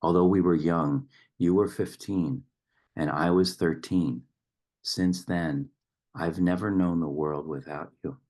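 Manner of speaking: measured poetry recital with line pauses; firm openings, falling line ends; poem reading. Acted. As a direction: read the poem aloud, letting each line land. Reads a poem aloud.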